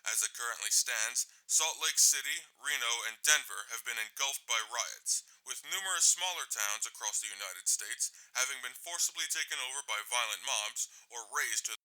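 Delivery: news read. Acted. News anchor reporting riots.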